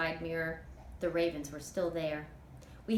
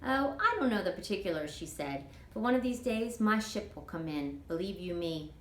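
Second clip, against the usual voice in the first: easygoing Southern auntie dreaming aloud; a hint of a chatty older woman; Toot, folksy older woman. Toot's voice in read story.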